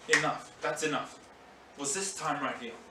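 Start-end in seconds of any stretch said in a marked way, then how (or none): 0.1-1.2 soft low worn-out giving up; weary surrender. Retold or imitated. Imagined Jesus giving up on the cross, soft surrender. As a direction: let it go as if utterly spent. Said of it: "Jesus could have gone".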